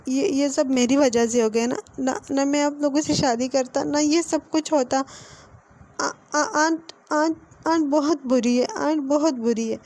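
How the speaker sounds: a touch of sobbing as he blames himself; crying. Acted. Wing at Ibo's bedside, mildly tearful. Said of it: "तो वो रोने लगता है".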